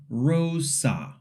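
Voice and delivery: slow rosa with slid vowels; wrong way. Shown as a demonstration. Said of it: "saying it like rosa".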